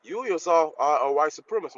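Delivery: loud, insistent counter-accusation; forceful accusation. Real, not acted. Caller throws the accusation back.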